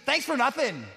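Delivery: mock ingratitude; lightly sarcastic, retold jab; ungrateful. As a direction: act out a sarcastic non-thanks. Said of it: "the ultimate expression of ingratitude".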